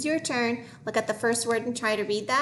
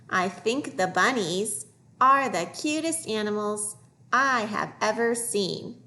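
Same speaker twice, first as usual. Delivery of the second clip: measured phrases with pauses between; slow reading aloud; slower than usual. Shown as a demonstration. Teacher reading a passage for young readers, slowly. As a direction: model fluent reading, phrase by phrase.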